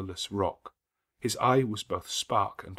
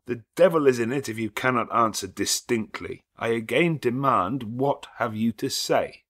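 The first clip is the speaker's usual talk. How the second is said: louder, slowed, cold insistence; stern demand; 3 semitones higher, 6 dB louder than usual. Acted. Rochester presses Mason, stern cold demand. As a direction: press him hard.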